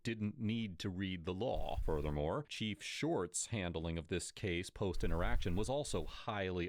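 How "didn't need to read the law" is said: slow, dismissive officer quote; mocking quote. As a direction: drag it out mockingly. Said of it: "quote unquote".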